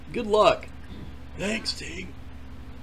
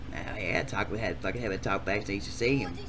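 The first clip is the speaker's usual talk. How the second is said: quiet aside; 14 semitones lower, 13 dB quieter than usual. Real, not acted. Mutter backstage aside.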